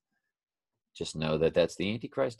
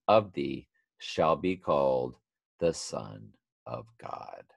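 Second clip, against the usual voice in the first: scripture reading. Acted. Reads scripture aloud.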